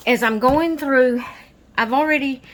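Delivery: breathless from running around; puffing between words after rushing; out of breath. Real, not acted. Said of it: "I'm out of breath".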